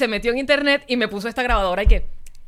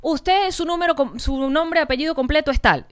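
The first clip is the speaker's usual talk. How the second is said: agente telefónico levemente actuado, algo agudo; imitando al agente; 4 semitones higher than usual. Retold or imitated. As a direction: imita apenas a quien verifica datos por teléfono. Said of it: "el tipo me decía". (leve voz de operador)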